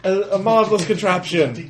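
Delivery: very high, fussy put-on voice; delighted, polite character. Tiny Tim on the ride thanking sir, high delighted voice. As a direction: gush in a high, formal little voice. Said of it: "They're like".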